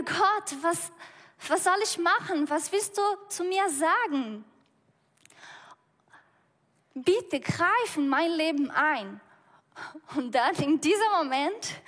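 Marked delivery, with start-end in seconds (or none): 0.0-9.2 mildly exasperated plea to God, pitched higher; frustrated prayer. Retold or imitated. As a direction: retell his annoyed pleading, a touch raised. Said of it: "dann wird er wütend".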